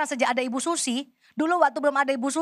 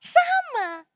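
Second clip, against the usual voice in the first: emphatic answer; 13 semitones higher than usual. Real, not acted. Answers own question.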